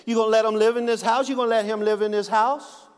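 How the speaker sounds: a hint of a jealous husband getting worked up; insistent husband. Husband presses wife in joke.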